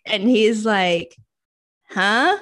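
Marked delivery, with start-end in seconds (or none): 1.9-2.4 incredulous. Retold or imitated. Friend's disbelieving reaction, acted out.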